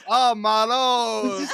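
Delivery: slow, loud "Oh, my Lord"; Jake's Jersey drawl. Retold or imitated. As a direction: stretch it like an Italian American. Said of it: "Jake goes".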